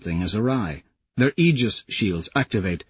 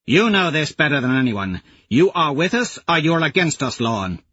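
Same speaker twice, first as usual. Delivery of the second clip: a hint of a stern warrior; lightly voiced Aja; 5 semitones higher than usual. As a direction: warrior woman laying down terms.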